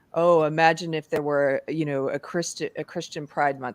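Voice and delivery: ordinary talk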